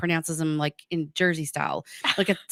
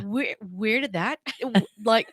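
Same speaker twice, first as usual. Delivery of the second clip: laughing mock disbelief; 3 semitones higher, 3 dB louder than usual. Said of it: "we're like".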